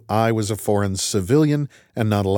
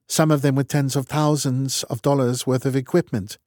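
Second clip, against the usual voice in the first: lightly raised, brisk no-nonsense commander; clipped and matter-of-fact, in charge; brisk woman's voice; 5 semitones higher than usual. Acted. Strat explains data.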